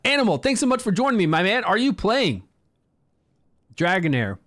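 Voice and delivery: talking around a lozenge; mouth full. Real, not acted. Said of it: "Sorry, I got this thing in my mouth still".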